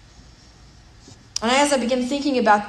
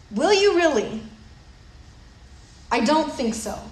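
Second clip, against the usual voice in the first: doubting Joshua; 4 semitones higher than usual. Retold or imitated. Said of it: "And he's like".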